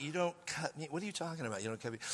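soft, dropping disbelief under the breath; stunned murmur. Retold or imitated. Stunned at his date's request, a soft muttered disbelief.

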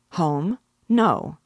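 Godfrey jolted by the news, snapping "No."; startled alarm. A narrator's reading. Godfrey alarmed about his horse.

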